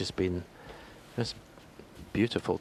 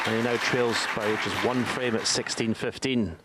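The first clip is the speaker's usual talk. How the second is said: raised, thrilled praise; excited; 3 semitones higher than usual. Real, not acted. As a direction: lift it with delight. Excited call after century break.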